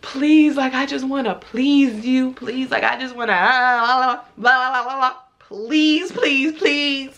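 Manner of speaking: imitating a pleading man, drawn-out pleases; lightly hammed-up begging; mock begging. Imitating a date begging her to let him, mock pleading. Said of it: "begging me".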